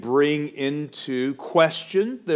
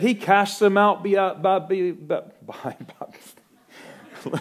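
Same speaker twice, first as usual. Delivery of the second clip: fumbled quote; 9 semitones higher, 6 dB louder, much slower than usual. Shown as a demonstration. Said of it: "I'm gonna get a running start again on that one".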